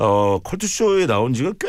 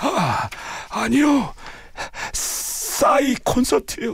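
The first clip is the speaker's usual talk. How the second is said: worn-out voice, very high and very hoarse rasp; 12 semitones higher than usual. A limping man at the counter answers the speaker's question: imitating a very hoarse voice. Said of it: "잔뜩 쉰 목소리로".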